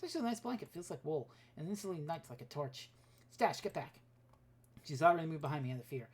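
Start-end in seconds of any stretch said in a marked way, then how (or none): 3.3-4.0 sharp call to the dog. Acted. Narrator calls the dog back from the fire, a raised sharp call. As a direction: warn her off the flames.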